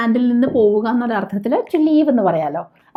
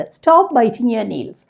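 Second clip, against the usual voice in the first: drawn-out, word by word; slow model sentence; much slower than usual. Shown as a demonstration. Teacher showing learners the English sentence, very slow. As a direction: dictate it slowly to the class. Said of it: "teacher models sentence".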